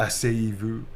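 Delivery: a hint of the French charmer; romantic French lover. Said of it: "Romantic blushing type line".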